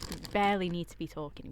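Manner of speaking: soft unvoiced whisper. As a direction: barely voice it, whispering.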